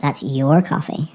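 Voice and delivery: "your" emphasized in "That's your coffee"; stress on YOUR. Shown as a demonstration. Teacher showing sentence stress, leaning on "your". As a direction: make "your" the most important word. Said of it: "you're emphasizing that word".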